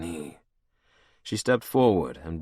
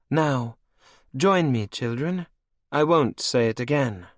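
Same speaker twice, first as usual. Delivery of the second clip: high, cold and mocking; higher, menacing royal voice; villainess queen; 7 semitones higher, 4 dB louder than usual. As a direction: purr it over your captive like a cruel queen. Anne commands the heirs.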